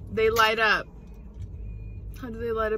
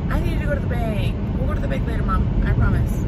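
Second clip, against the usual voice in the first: imitating mom; 4 dB louder, faster than usual. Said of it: "she's gonna be like".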